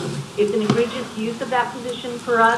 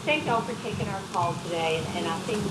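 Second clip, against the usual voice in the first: over a speakerphone; phone speaker; 4 dB louder than usual. Real, not acted. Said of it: "I'll put you on speakerphone".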